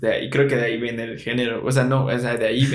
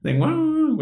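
duck squawk. Shown as a demonstration. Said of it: "es un sonido raro".

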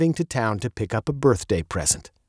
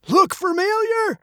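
put-on high, gravelly old man's voice; old, gravelly jeweler. A narrator's reading. Jeweler quizzing the girl, old and gravelly. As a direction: probe knowingly in an old, high voice. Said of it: "his voice as old and gravelly as his face".

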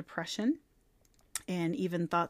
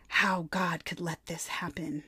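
hushed, breathy retelling of her question; soft unvoiced quote; whispered quote; 3 semitones lower, 4 dB quieter than usual. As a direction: whisper it as if confessing doubt. Quoting a grieving mother.

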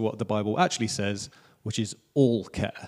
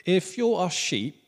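slow, higher-pitched American twang; American accent; 6 semitones higher, slower than usual. Shown as a demonstration. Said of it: "went American there".

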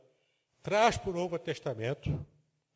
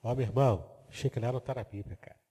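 gentle tact; 2 semitones lower, faster than usual. Pretend. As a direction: correct a brother gently, lightly acted. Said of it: "com muito jeitinho".

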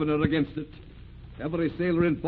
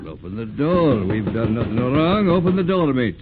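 defiant order; 7 dB louder than usual. Acted. Skipper defiant as soldiers arrive.

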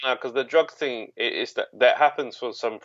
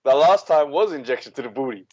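laughing; 4 semitones higher than usual. Retold or imitated. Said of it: "I thought to myself".

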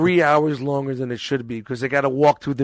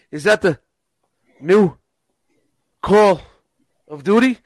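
rising, louder, word by word; excited gamer guy; 5 semitones higher, 5 dB louder than usual. Retold or imitated. Mimicking the repairman spotting the game, rising excited voice. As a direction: draw it out in disbelief. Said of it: "imitating water heater guy".

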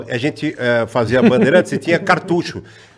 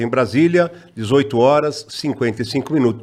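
radio announcer; 4 semitones lower than usual. Retold or imitated. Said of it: "gravava a abertura da Voz do Brasil".

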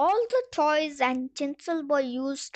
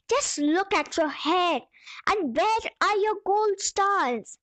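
stern Saint Peter; 5 semitones higher than usual. Acted. Saint Peter scolds the angel.

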